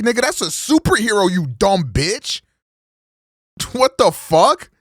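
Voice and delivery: mock her answer in disbelief; incredulous laughing rant. Real, not acted. Mocking the bonfire answer.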